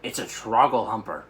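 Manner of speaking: shout. Acted. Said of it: "he shouted".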